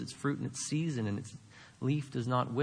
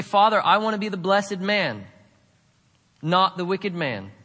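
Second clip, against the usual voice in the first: modelled prayer; 4 semitones higher, 6 dB louder than usual. Shown as a demonstration. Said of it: "have a conversation with God".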